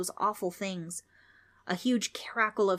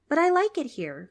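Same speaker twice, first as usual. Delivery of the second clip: put-on pleading kid; 9 semitones higher, 7 dB louder than usual. Frank pleads.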